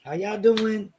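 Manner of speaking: friendly country hello, lightly acted; country greeting. Newcomer introducing herself to the block, folksy country manner. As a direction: re-enact a down-home country introduction. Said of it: "I was just country like that".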